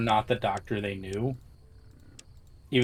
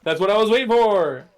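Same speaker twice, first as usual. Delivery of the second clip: gleeful cheer; 12 semitones higher, 6 dB louder, slower than usual. Real, not acted. Streamer gloats over friend's death, gleeful cheer. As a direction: crow it in triumph.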